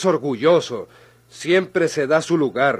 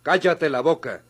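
stern order. Acted. Lawyer ordering Buitrón to let the old man speak, stern.

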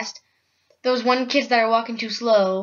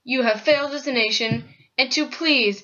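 Abraham Lincoln; 3 dB louder than usual. Pretend. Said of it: "it is Abraham Lincoln".

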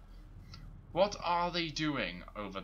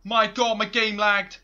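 high shriek, then loud panic; startled scream; 7 semitones higher, 17 dB louder than usual. Real, not acted. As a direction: scream and keep shouting. Sudden scare, then lag.

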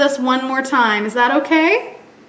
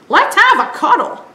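higher friendly duck; 8 semitones higher, 5 dB louder than usual. Acted. Duck offering piglet a cuddle, higher.

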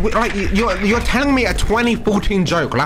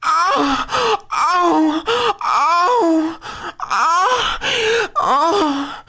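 excited; much slower than usual. Real, not acted. Repeated high oh cries.

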